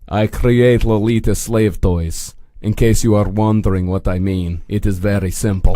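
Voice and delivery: put-on low, deliberate, light Eastern European accent. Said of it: "an Eastern European company".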